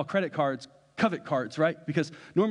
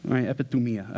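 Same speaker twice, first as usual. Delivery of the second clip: epithumia said offhand in a light New Jersey gangster accent; a passing hint of New Jersey gangster on epithumia; 3 semitones lower than usual. Shown as a demonstration. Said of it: "I said it like a New Jersey, um, uh, gangster".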